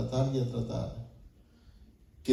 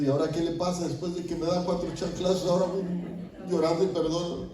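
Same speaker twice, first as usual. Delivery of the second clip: higher-pitched puzzled mimicry; bewildered toddler's thoughts; 4 semitones higher than usual. Spanked son puzzled by crying dad, lightly imitated in higher pitch. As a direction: lightly voice a baffled little kid. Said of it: "Como diciendo".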